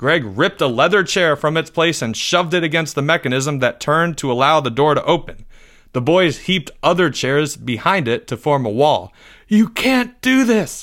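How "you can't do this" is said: long, high, drawn-out howling cry. A boy howls at his friend, who is barricading the door: howled. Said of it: "Leo howled".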